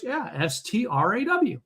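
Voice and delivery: high and slow, letter by letter; Texas lady spelling. Retold or imitated. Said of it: "She goes".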